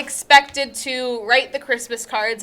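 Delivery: lightly playing a proper fifties wife; 1950s housewife. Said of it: "Why do you sound like a fifties housewife?".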